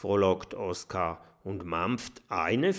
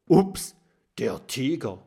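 surprised; 2 semitones higher, 5 dB louder than usual. A narrator's reading. Oskar sieht den Tiger.

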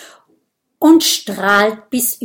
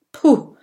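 loud puff of relief; relieved puff; 6 semitones higher, 8 dB louder than usual. Acted. Dragon after the prick, puffing with relief. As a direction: blow out the tension. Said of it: "atmet erleichtert aus".

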